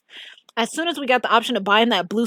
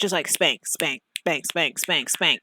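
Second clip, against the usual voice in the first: mock spank sound effect; 6 semitones lower, 6 dB quieter than usual. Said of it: "This spank sound effect".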